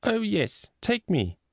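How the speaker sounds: put-on high little-boy eagerness; excited cry. A narrator's reading. Small boy begging his sister to take him along, excited cry. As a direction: pipe up excitedly, pitched well above normal. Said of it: "he ran up to Margaret and cried".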